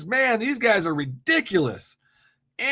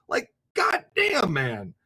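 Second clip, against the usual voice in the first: fed up with a caller who won't listen; exasperated; 2 semitones lower, slower than usual. Real, not acted. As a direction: throw up your hands in disbelief.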